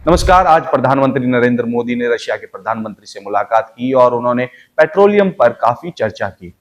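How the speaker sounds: brisker news bulletin; news read at a livelier clip. Shown as a demonstration. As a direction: pick up the newsreader pace a little. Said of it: "इसकी speed थोड़ी सी बढ़ा दें".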